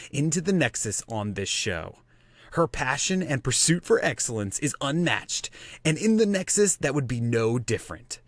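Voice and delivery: epic announcer intro; movie trailer voice. Acted. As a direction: read it like a trailer narrator. Reads a hero introduction.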